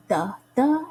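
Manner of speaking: both "the, the" hit with equal weight; "THE THE", two equal stresses; spondee stress. Shown as a demonstration. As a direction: give each "the" the same strong beat. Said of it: "syllables are equally stressed".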